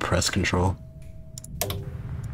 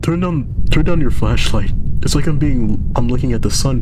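high, loud cry against the glare; loud pained protest; 3 semitones higher, 6 dB louder than usual. Acted. Character blinded by the player's flashlight, loud pained protest. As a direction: shout it like light is blinding you.

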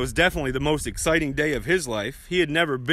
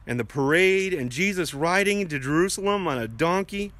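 simple prayer. Acted. Leads children in prayer.

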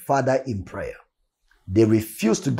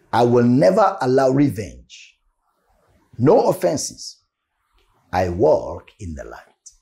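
congregational declaration. Shown as a demonstration. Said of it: "say these words with me".

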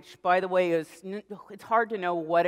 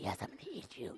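hushed playful menace, much softer; kid's monster whisper again; 2 semitones lower, 15 dB quieter, faster than usual. Retold or imitated. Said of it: "suddenly he goes".

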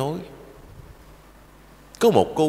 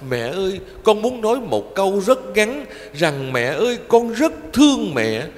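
sobbing plea; 7 semitones higher than usual. Acted. Girl crying to her dead mother, voice rising and tearful. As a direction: let the voice climb as the grief breaks. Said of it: "rồi nức nở nghẹn ngào".

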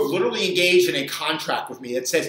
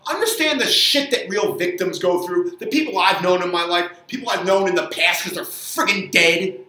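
louder, heated ranting at the viewers; angry rant; 4 dB louder than usual. Real, not acted. Trainer ranting at viewers about sugar addiction, loud and angry. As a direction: jab each "stop with the" harder. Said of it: "this is the angry pontificating trainer".

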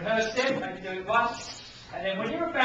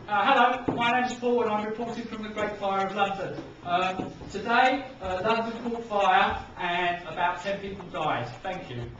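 news reporter; 3 dB louder than usual. Shown as a demonstration. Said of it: "a little bit like a news person".

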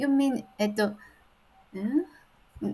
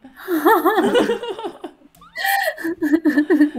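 long, high, loud laughing fit; helpless high-pitched laughter; 8 semitones higher, 8 dB louder than usual. Real, not acted. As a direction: burst into high peals of laughter. Laughs at teacher's answer.

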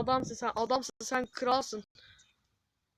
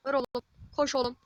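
desperate shout; 7 dB louder, slower than usual. Real, not acted. Gamer begging his team not to concede, desperate shout. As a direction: yell it louder with each word, pleading. Urging players as goal threatens.

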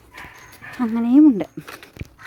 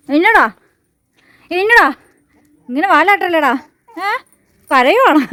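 high, loud doting coos; 6 semitones higher, 5 dB louder than usual. Real, not acted. Owner cooing at her wagging dog, high doting squeal.

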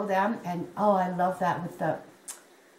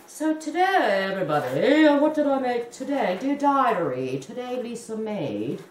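mock fancy presenter. Crocheter clowning for viewers in a fancy outfit, mock fancy presenter. Mock show-off modelling, then calls herself idiot.

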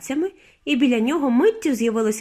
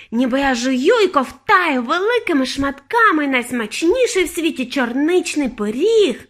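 raised, gushing relish; ecstatic savouring; 5 semitones higher, 5 dB louder, slower than usual. A narrator's reading. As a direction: draw out the big words as if tasting them. Girl raves about taste.

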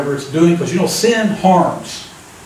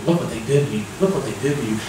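tempting enemy voice; 5 semitones lower, 7 dB quieter, faster than usual. Retold or imitated. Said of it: "the enemy just keeps bringing it back".

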